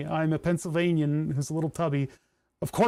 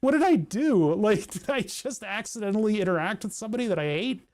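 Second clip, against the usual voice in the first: panicked disbelief; 3 semitones higher than usual. Retold or imitated. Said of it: "I'm like".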